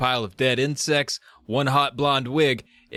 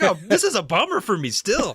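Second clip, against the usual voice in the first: monster voice; 7 semitones higher, 3 dB louder than usual. Retold or imitated. Voicing the English-speaking monster.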